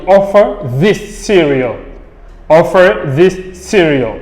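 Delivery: "offer this cereal" with no R ending "offer"; teaching model of "offer this cereal", "offer" ending on a vowel; silent R before consonant. Shown as a demonstration. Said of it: "on ne lit pas le R".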